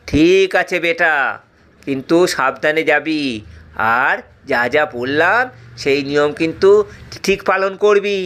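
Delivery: put-on a calm old sage giving instructions. Sage voice, low and slow.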